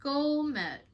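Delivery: high, loud burst of triumph; giddy, relieved whooping; celebratory cheer. Real, not acted. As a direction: cheer yourself on for getting through it. Celebrates finishing poem without crying.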